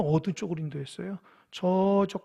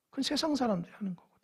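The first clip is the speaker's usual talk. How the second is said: whisper; 4 semitones higher, 7 dB quieter, faster than usual. Real, not acted. Aside contrasting worldly reasoning.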